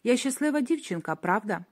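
a hint of a little girl asking; girlish voice. Athena's voice turning girlish as she taunts June. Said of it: "стає дівчачим, тонким".

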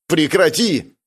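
sharp shout to stop. Acted. Juwon shouting at the ghost to stop. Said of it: "крикнул он".

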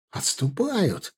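high, drawn-out call; joyful cry. A narrator's reading. Stas announces the enemy's retreat, crying out joyfully. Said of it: "радостно выкрикнул Стас".

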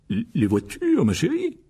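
hesitant, rising to a high squeak; guilty. Acted. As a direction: play the guilty husband feigning innocence. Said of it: "regarda sa femme d'un air coupable". (l'air coupable, hésitant)

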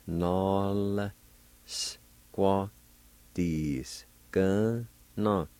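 NOL SQUADISKA NO broken into slow, separate syllables. Shown as a demonstration. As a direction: sound out "Nol squadiska. No." slowly with clear gaps. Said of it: "pronounce the L sound".

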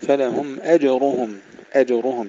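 "أجرهم" with thin ء and an echo on ج; bounced light jim. Shown as a demonstration. Teacher drills the verse word, qalqalah on jim. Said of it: "ترقيق الهمزة والجيم مع قلقلة الجيم".

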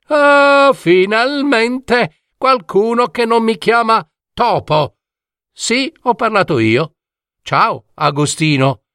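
high, bright-pitched little dormouse, relieved; cheerful dormouse. Acted. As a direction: squeak it out high, glad someone finally gets it right. Talking dormouse speaks.

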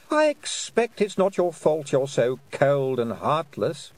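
silky, mocking fairy queen voice. Queen taunting Tiffany with a cool, mocking voice. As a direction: taunt her sweetly from above.

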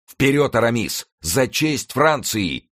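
high rallying cry, stretched at the end; exclaiming. A narrator's reading. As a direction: call your comrade to charge for honour. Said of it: "воскликнул". (пылкий боевой клич)

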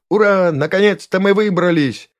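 high, loud, gleeful cheer; perky cheer. A narrator's reading. Small voice celebrates getting out at last, perky cheer. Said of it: "ответил задорный голос".

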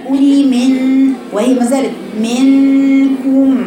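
قولي من drawn out slowly, then منكم; slow modelled ghunna. Shown as a demonstration. Teacher asking her student to say من slowly.

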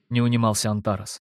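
ordinary delivery

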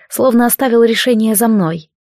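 usual speaking voice

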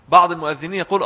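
usual speaking voice

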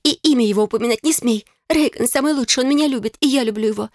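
high, heated, defensive; hurt bride fiercely defending her love; upset young sister. A narrator's reading. Bride defending her fiance to her sister, high heated voice.

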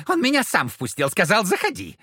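tipsy, giggling demon voice; giggling devil. Acted. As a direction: snicker it with a hiccup. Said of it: "Чёрт икнул и захихикал".

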